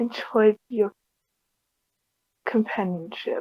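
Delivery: very quiet, straining voice. Voicing a character who speaks before the watch ends: very quiet, straining voice. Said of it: "her voice is straining".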